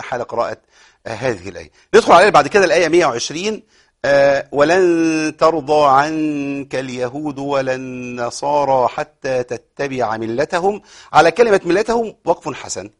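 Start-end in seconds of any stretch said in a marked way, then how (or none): 4.5-10.8 slow drawn-out tajweed recital; Quran recitation. Shown as a demonstration. Teacher reciting the verse for the class. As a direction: recite with long held vowels.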